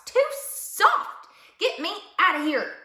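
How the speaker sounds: high, loud cry of complaint. A narrator's reading. Dusty Locks sinks in the feather bed, crying out. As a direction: call out as if being swallowed up. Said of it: "cried Dusty Locks".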